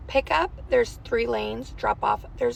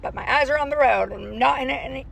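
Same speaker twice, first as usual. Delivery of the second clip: insisting; 2 semitones higher, 4 dB louder than usual. Real, not acted. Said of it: "I am on my phone while driving".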